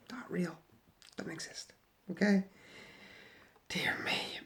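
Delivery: hushed, breathy aside; a muttered, whispered dear me. Real, not acted. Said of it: "whispered asides".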